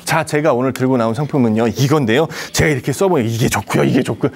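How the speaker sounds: home shopping host pitch; lightly voiced TV shopping host; hard sell ad. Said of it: "홈쇼핑처럼".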